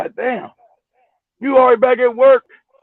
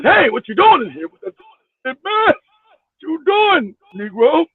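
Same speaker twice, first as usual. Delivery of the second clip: mock startled man; 5 semitones higher, slower than usual. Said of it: "I was just coming to".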